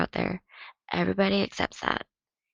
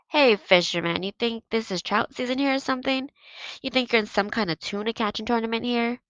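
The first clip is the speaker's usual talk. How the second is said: taunting; 5 semitones higher, 5 dB louder than usual. Acted. Victor taunting the goalie.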